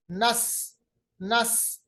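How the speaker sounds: "नस" with a sharp sibilant s; sharp whistling seen. Shown as a demonstration. Teacher showing safeer in "नस", sharp whistling s. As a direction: let the s of "नस" whistle between the teeth. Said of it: "सफीर का मतलब होता है तेज आवाज".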